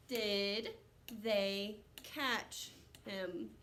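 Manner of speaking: very slow, word by word; slow read. Shown as a demonstration. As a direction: sound it out slowly.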